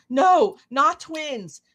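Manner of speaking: high, very slow, laughing through it; amused high "no, not twins"; laughing denial. Retold or imitated. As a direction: giggle the correction out. Daughter-in-law correcting guests, laughing.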